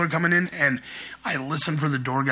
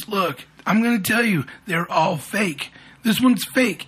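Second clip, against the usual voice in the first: slightly raised, deliberate pitch of someone proving a point; mock know-it-all husband; 4 semitones higher, slower than usual. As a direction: lightly act out a cocksure husband. Retold husband assures wife figures are fake.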